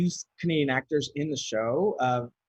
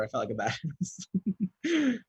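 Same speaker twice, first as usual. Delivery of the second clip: mock badass; 4 semitones higher, slower than usual. Hamming up feeling tough.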